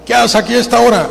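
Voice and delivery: mock-angry demand; acted stern scolding. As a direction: imitate a fierce man challenging a child. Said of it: "y era bravo".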